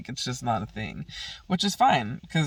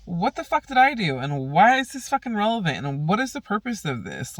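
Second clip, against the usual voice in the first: mock furious, much higher and louder; retold angry outburst; 6 semitones higher, 3 dB louder than usual. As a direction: replay the blow-up in a heated mock yell. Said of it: "And I'm like".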